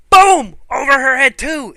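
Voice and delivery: high, loud hype burst; hyped call. Real, not acted. Fan hyping a dream wrestling finish, excited call. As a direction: call the big move like a ringside fan.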